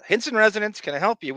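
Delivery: high, singsong answering-the-phone voice; mock phone greeting. Richard Jeni answers the family phone in a mock prim voice. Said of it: "Richard Jeni called back and said".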